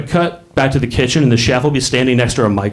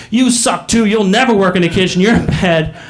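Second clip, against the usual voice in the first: mock berating, pitched up; angry chef; 6 semitones higher than usual. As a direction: tear into a cook, lightly acted. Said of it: "He's an angry British chef".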